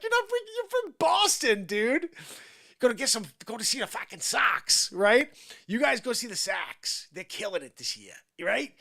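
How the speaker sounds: put-on high, loud Boston accent. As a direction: bark it like a Boston fan. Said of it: "my Boston accent's not as good".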